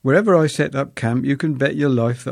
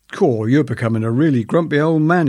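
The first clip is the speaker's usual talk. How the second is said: teasing passenger; 3 semitones higher, 5 dB louder than usual. Retold or imitated. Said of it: "exclaimed our passenger".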